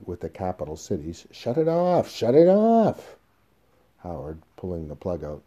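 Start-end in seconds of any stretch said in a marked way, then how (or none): 1.3-3.2 high, frantic shouted command; desperate full-voiced shout; panicked yelling. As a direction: scream it in panic, dragging out the repeat. Terrified of the running recorder.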